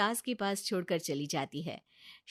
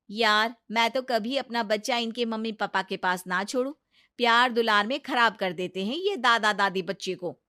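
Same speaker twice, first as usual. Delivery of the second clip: louder, lightly voiced disapproving colleague; opinionated friend; 6 dB louder than usual. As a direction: warn a friend firmly and loudly. Friend disapproves of grandparents' care.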